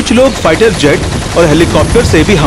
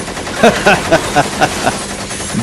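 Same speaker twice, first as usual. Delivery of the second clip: mocking laugh; 5 dB quieter than usual. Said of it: "सभी लोग बहुत हंसते हैं".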